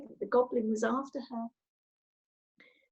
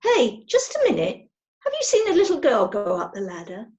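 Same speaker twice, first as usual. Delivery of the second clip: calling down the ladder, raised voice; 5 dB louder than usual. Acted. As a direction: call it down to someone below. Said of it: "he called down to the goblin".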